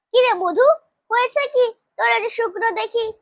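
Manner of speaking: lightly acted kindly concern; compassionate. A narrator's reading. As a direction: ask an upset child tenderly. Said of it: "কহেন করুণ স্বরে".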